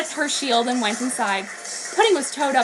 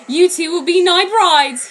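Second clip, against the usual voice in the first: slow, louder villain proclamation; menacing vampire; 6 semitones higher, 7 dB louder, slower than usual. Acted. Ciel tells the captured girls, in a slow, menacing voice. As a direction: declare it like a gloating vampire king.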